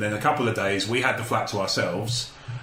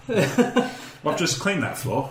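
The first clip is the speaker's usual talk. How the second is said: laughing quote; 4 semitones higher, much slower than usual. Retold or imitated. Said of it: "was just like".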